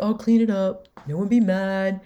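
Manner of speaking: dramatic outburst. Retold or imitated. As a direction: play it as a big dramatic show of guilt. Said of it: "getting very dramatic".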